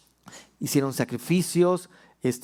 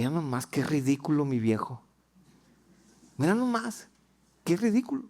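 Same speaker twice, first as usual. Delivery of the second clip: scornful wife sneering at her husband; mocking wife. Wife at the window scoffing at dancing David, mocking.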